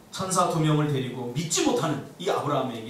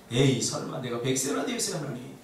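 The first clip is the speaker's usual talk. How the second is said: lightly acted disbelief; mild mock-sceptical grumble; inward scoffing. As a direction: brush the promise off, then grow more incredulous. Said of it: "속으로는 비웃으면서".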